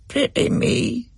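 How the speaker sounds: high, slow, hoarse breathy croak; a sorrowful little bird rasping its words; sad hoarse bird. A narrator's reading. The white bird speaks to Rachel, sad hoarse croak. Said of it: "in its sad, hoarse voice".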